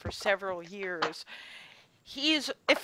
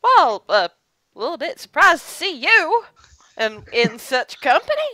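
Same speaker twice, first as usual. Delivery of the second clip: Lisa voiced; 6 semitones higher, 11 dB louder than usual.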